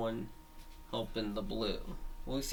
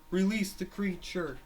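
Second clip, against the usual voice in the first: shouted command; 7 semitones higher than usual. Acted. Yellow one orders the release.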